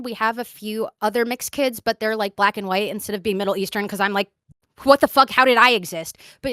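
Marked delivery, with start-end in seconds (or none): 4.8-6.2 louder, incredulous what the fuck; mock exasperated outburst. Recalling confusion about the mixed cousins, loud and incredulous. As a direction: blurt it out, baffled. Retold own bafflement.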